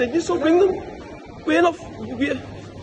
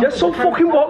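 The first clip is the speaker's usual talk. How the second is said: mocking laugh; 7 semitones higher than usual. Real, not acted. Confronting the accused man, laughing.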